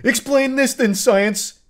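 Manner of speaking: high, hammed-up triumphant challenge; mocking a man proving a point. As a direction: crow it at science like a miracle. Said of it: "As he, like, slowly begins his ascent".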